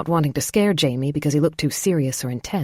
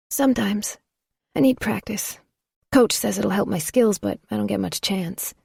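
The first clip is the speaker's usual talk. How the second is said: lightly voiced shy boy; higher, a shy kid; 5 semitones higher than usual. Jamie, a boy.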